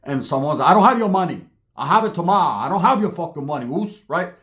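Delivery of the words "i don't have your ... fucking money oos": put-on Samoan-accented retort; Polynesian dialect. Samoan telling Toko he can't pay, Polynesian accent. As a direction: answer in a lightly imitated Samoan accent. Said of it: "their dialect comes out".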